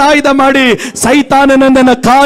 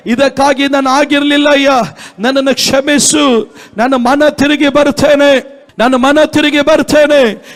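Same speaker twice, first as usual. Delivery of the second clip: led prayer; 3 semitones higher than usual. Shown as a demonstration. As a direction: lead the congregation in rising, urgent confession. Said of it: "ಕೈಗಳೆತ್ತಿ ಗಟ್ಟಿಯಾಗಿ ಸ್ತೋತ್ರ ಹೇಳೋಣ". (ವೇಗವಾಗಿ ಏರುತ್ತಾ ಹೋಗುವ ಪ್ರಾರ್ಥನೆ)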